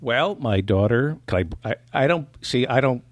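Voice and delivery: ordinary talk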